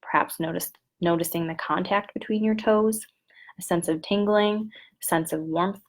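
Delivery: measured script reading with long pauses; unhurried instructions, leaving room to breathe; guided body scan. Shown as a demonstration. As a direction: lead listeners through a meditation, phrase by phrase.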